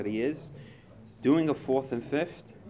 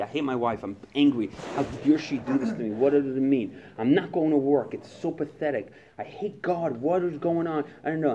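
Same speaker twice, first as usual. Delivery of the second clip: louder, agitated venting; a complaining vent, moderately loud; old angry phone call; 2 semitones higher, 4 dB louder than usual. Retold or imitated. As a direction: rant about the wife like you used to. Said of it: "My phone call used to be".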